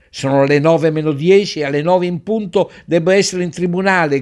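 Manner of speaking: l'avvocato grida, più alto e forte; impatient shout. Acted. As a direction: protesta affannata di chi è in ritardo. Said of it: "gridò un avvocato". (un avvocato in ritardo che grida la sua fretta)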